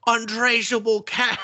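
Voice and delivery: high, slow put-on kid voice; kid offering a bribe. Kid bribing the coach, high drawn-out imitation. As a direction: draw it out high while half laughing.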